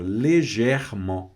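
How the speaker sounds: slow légèrement, first E closed, second open; légèrement, closed then open E. Shown as a demonstration. French teacher points out two E sounds, slow légèrement with closed then open E. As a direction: draw out légèrement to contrast both E sounds. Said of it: "Olha que dentro da mesma palavra".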